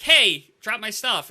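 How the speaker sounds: loud, slow callout; call to teammate. Retold or imitated. Asking the teammate to drop his gear, loud and slow. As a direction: call it out over voip. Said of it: "I was like".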